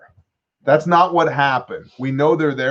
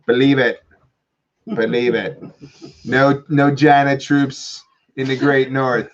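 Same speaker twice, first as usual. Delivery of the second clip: Trump impression. Host mocking Trump calling Trudeau, light Trump voice. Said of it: "Trump reached out to Trudeau and said".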